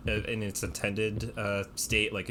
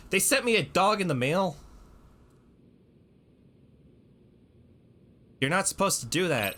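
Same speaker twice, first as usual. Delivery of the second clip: surprised; 10 semitones higher, 6 dB louder than usual. Real, not acted. Shocked at dog in mail.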